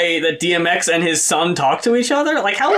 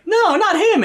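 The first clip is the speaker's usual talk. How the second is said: A rapper refusing; 11 semitones higher than usual. Retold or imitated. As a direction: push back hard, playing the rapper. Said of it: "And the rapper is like".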